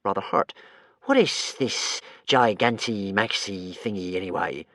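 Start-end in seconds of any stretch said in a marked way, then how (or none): 1.0-4.6 curious creature. Acted. Creature asks.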